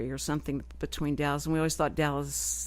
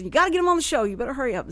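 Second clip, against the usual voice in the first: high, louder retold urging; urgent prodding; 6 semitones higher, 4 dB louder, much faster than usual. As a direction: hustle someone along in a mock-urgent voice. Acting out Dennis hurrying her.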